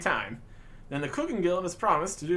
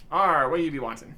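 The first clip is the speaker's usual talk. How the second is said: pirate captain; 2 semitones lower, 6 dB louder than usual. Acted. Pirate captain greets player.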